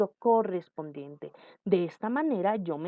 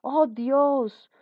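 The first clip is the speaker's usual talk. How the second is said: high, drawn-out calling on God; demonstrated exclamation; 6 semitones higher, 4 dB louder, much slower than usual. Shown as a demonstration. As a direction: exclaim slowly, pitched well up. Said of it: "o cuando dicen". (exclamación aguda y alargada)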